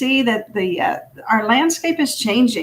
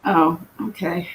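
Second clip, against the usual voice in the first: echoing like in a tunnel; 2 semitones lower, 3 dB quieter than usual. Real, not acted. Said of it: "it sounds like you're in a tunnel".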